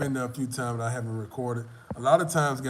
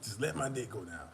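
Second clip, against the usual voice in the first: low, soft mock prayer; retold begging; 4 semitones lower, 7 dB quieter than usual. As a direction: plead with God under your breath, re-enacting it. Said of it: "I was literally begging God".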